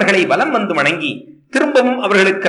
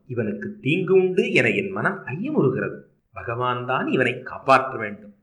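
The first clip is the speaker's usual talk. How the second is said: softer, hushed voice of the sage foretelling danger; Narada, grave prophecy; 4 semitones lower, 5 dB quieter than usual. Acted. Sage Narada quietly warning the parents, softer and grave. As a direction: speak low and grave, a sage sharing a worrying omen.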